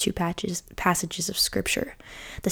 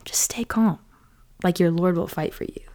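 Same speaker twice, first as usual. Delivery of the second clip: calm whisper. Retold or imitated. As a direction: hush them gently, steady and sure. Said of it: "And Moses is like".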